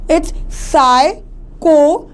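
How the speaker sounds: "psychology" broken into slow, separate syllables; "psychology" pulled apart, each vowel sounded out. Shown as a demonstration. Teacher showing vowel sounds to students, psychology syllable by syllable. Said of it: "the word of O is coming".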